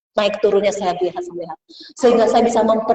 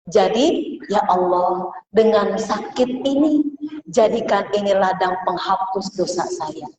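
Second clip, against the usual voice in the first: humble prayer; slower than usual. Acted. Preacher voicing a sick believer's prayer.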